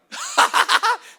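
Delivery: loud high laugh out loud; real shout of laughter; hearty guffaw; burst of laughter. Real, not acted. Laughs at own joke.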